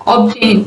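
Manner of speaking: Obtain with the b clearly sounded; b pronounced. Shown as a demonstration. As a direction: say Obtain as ob-tain, b voiced. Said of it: "Obtain में बी को हम pronounce करते हैं".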